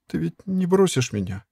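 робко; timid. A narrator's reading. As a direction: ask it timidly, afraid of the answer. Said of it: "робко спросила она".

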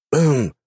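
short surprised throat clear; awkward cough. Acted. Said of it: "кашлянул".

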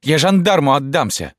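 высокий, громкий истерический выкрик; кричи в истерике, срываясь; истерический крик. A narrator's reading. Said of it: "истерически закричала Рима". (Рима истерически кричит на мать)

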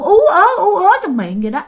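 high wordless "ú ớ" moan; imitated muffled stammer. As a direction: imitate struggling to speak through a full mouth. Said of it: "muốn nói cái gì đó mà ổng không nói được". (giả tiếng ú ớ trong miệng)

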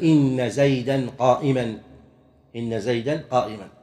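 "زيدًا قائمًا" both ending in "-an"; both nouns accusative. Shown as a demonstration. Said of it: "من ينصب الجزئين".

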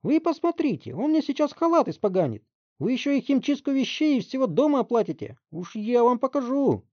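high, loud slowed threats; threatening mother. Acted. Mother threatening the detective with lawsuits. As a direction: spit out every threat. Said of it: "пригрозила Марш".

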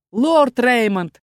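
loud, slow, pleading cry of a name; father crying out to the duke; alarmed call. A narrator's reading. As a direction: call out to stop him in alarm. Father grabs the duke's arm.

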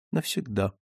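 falling, expressionless answer; subdued, final, automatic reply; mechanical repetition. Acted. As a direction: repeat it automatically, without feeling. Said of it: "машинально повторила она".

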